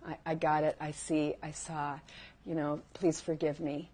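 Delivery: low, softened admission; gentle apology. Shown as a demonstration. Speaker showing how to ask someone for forgiveness, gently apologetic. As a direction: own up quietly and simply.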